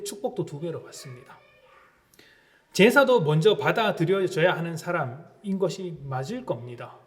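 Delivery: ordinary talk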